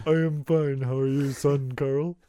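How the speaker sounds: Carl Sagan imitation. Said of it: "Everyone in town talks like Carl Sagan".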